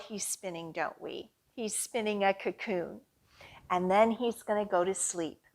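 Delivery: soft sleepy hush. Acted. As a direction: lull them toward sleep. Caterpillar going to sleep.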